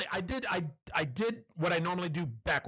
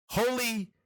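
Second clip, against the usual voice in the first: Holy shit drawn out slowly in awe; slow stunned emphasis; slow awed repeat; 4 semitones higher, 3 dB louder, much slower than usual. Real, not acted. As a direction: stretch out Holy shit, amazed. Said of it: "holy shit".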